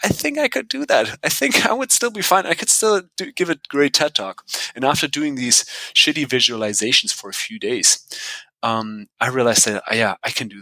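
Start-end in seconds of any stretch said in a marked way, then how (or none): 0.0-4.4 higher, gentle inner pep talk; a hint of a self-reassuring thought; lightly voiced reassuring self-talk. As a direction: talk yourself into calm, lightly.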